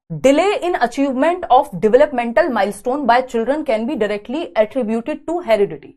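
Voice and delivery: reads the statement out slowly, word by word; slow, deliberate read of the question; careful, even question read; slow exam reading. Acted. Reads exam assertion aloud slowly.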